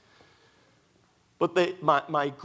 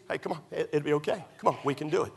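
encouraging; 3 dB quieter, much faster than usual. Shown as a demonstration. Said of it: "They need".

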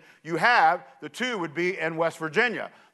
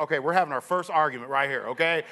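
inner thought; 4 semitones lower, faster than usual. Retold or imitated. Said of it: "and I'm thinking".

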